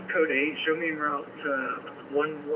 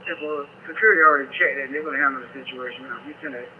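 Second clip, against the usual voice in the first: police radio; 4 dB louder, faster than usual. Real, not acted. Officer answering dispatch over the radio.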